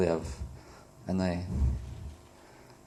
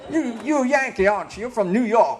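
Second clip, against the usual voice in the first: put-on high-pitched Southern country accent; hammed-up Kentucky accent, pitched up; 9 semitones higher, 4 dB louder than usual. Southerner quizzing a Yankee visitor, hammed-up Southern accent. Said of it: "You know, that's how they talk".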